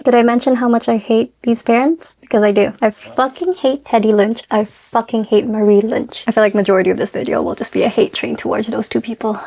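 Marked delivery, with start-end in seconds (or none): none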